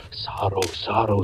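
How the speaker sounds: breathed whisper. Acted. Spirit voices foretelling the future, whispered. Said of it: "they breathe".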